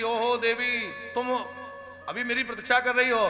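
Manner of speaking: delighted recognition. Acted. Pradyumna recognizes Rati, laughing.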